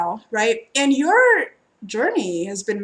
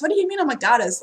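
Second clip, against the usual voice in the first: milder disbelief; 5 semitones higher, 3 dB louder, much faster than usual. Retold or imitated. Reader repeats the goddess question, gently puzzled. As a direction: repeat it still puzzled but calmer.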